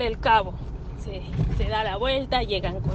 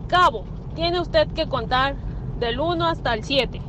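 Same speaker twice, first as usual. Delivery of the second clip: drill sergeant voice; 3 semitones higher than usual. Retold or imitated. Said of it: "me sale bien mi voz de sargento".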